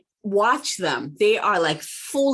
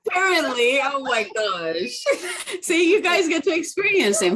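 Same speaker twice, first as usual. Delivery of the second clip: high-pitched, laughing exclamation; real amused laughing; 9 semitones higher than usual. Real, not acted. Mother as her son decides to join in, laughing. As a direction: giggle helplessly through the words.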